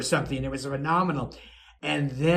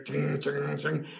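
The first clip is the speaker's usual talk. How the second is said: soft little metallic tings; imitated elevator clanking; 2 semitones lower, 6 dB quieter than usual. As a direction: make small ringing elevator noises. Imitating old iron elevator.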